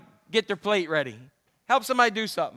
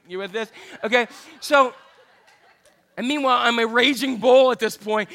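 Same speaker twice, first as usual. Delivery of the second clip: laughing; 5 dB louder than usual. Real, not acted. Laughs telling the story.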